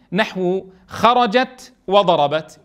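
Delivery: خرجت وضربت drawn out very slowly, final t kept; slow reading of examples. Shown as a demonstration. Teacher reads verb examples slowly to the class. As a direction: read نحو خرجت وضربت slowly, each word clear. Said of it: "في الفعل ماذا نقول".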